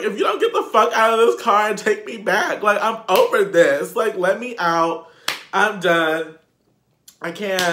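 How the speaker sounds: loud, high-pitched outburst, reenacted; retold yelling. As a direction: act out going off on someone, loud and high. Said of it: "I was yelling at him".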